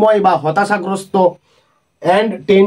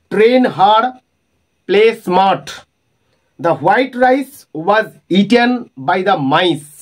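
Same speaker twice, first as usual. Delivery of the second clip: each example line drawn out slowly; slow example reading; much slower than usual. Acted. Teacher reading assonance examples to students, slow and clear. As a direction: lay out every example clearly for the class.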